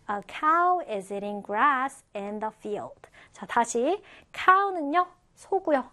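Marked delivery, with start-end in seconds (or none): 0.1-3.0 slow, carefully spaced English example; slow model reading. Shown as a demonstration. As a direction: read it slowly for learners to follow. Teacher models example sentence for learners.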